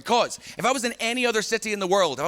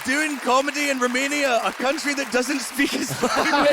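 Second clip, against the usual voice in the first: higher sing-song taunting voice, laughing through it; mock baby talk; 7 semitones higher than usual. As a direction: tease the baby in sweet baby talk.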